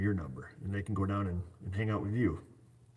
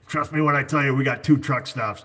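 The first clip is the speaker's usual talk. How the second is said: laughing emphasis; 5 semitones higher, 8 dB louder than usual. Real, not acted. Teasing a viewer about lot lizards.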